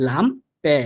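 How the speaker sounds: লাম্পে with the last vowel a light, open "eh"; careful model word লাম্পে, both syllables clearly set out; light final e. Shown as a demonstration. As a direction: say লাম্পে as LAM-peh, ending like Bengali এ. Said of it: "হালকা একটু এ এর মতো উচ্চারিত হবে".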